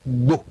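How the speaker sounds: Gbo with g and b released together; hard gb sound. Shown as a demonstration. Showing the sound they never use, Gbo with full gb. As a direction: say Gbo as one heavy gb syllable. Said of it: "They never use the word".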